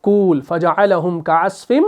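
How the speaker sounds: Quranic recitation, slow, with a catch on the hamza in माकूल; recited with a jerk. Shown as a demonstration. Teacher reciting the verse to show the jerk. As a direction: recite फजअलहुम कास्फिम माकूल with a glottal jerk. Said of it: "झटका देकर उसको पढ़ते हैं".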